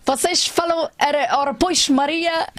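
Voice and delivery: put-on Brazilian doing a Portuguese accent; mock Portuguese accent. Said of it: "brasileira fazendo sotaque de alentejano".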